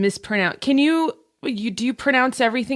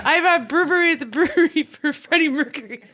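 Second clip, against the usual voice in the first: laughing through it; 4 semitones higher than usual. Real, not acted. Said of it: "you're having a total meltdown".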